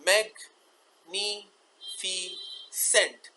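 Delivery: magnificent split as mag, ni, fi, cent; very slow, pause between syllables of magnificent; four sounds. Shown as a demonstration. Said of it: "चार sounds हैं इसके". (magnificent को तोड़कर, मैग... नी... फी... सेंट)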